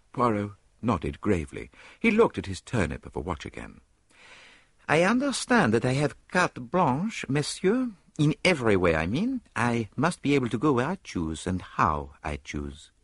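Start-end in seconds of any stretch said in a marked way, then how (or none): 4.9-12.9 Belgian detective, higher and precise; crisp little foreign detective stating terms; detective demanding carte blanche, lightly accented; Poirot's voice. Acted.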